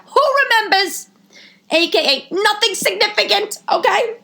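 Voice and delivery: from seething to screeching; raving like a loon. Retold or imitated. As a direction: work yourself up into a hammed-up jealous rant. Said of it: "I was a loon".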